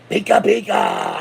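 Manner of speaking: high, slow pika pika squeak; Pokemon voice. Pretend. A pirate fan trying Pokemon talk, squeaky. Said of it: "I can't talk no Pokemon".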